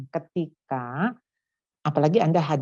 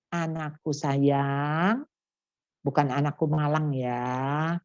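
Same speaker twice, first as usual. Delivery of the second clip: gentle firm mother. Retold or imitated. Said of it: "Anda bilang".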